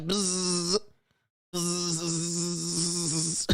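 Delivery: soft, far-off buzzing hum; mock buzzing. Mocking Gen Z as a soft buzzing sound. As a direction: buzz like a little insect. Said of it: "Gen Z be like".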